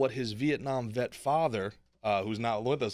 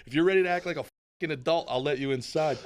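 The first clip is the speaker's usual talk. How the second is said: put-on kid and dad bit; 5 semitones higher, 3 dB louder than usual. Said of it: "And he'd be like".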